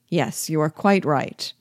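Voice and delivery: holding back a smile, lightly amused; a hidden smile behind the words; suppressing a smile. A narrator's reading. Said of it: "suppressing a smile".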